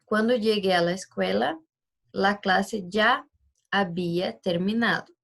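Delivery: slow, deliberate Spanish example; slow example read. Shown as a demonstration. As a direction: read the model sentence slowly for the class. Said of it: "Trouxe aqui um exemplo pra vocês".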